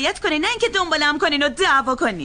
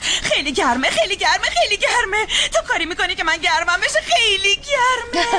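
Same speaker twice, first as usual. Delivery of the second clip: whiny crying complaint; 4 semitones higher than usual. Acted. Woman whining to the phone assistant about the heat, crying. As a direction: sob out the heat complaint like a fed-up child.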